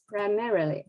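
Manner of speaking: "primarily" stressed on MAR, pry-MAIR-uh-lee; highlighted stress. Shown as a demonstration. Teacher pointing out the word to students, highlighted stress. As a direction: raise the second syllable of "primarily" and let the rest fall. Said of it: "I will highlight the stress here".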